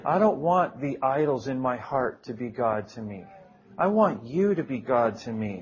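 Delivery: earnest, measured plea in prayer; heartfelt prayer. Retold or imitated. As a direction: plead it to the Lord, measured and sincere. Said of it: "I was touched and I prayed".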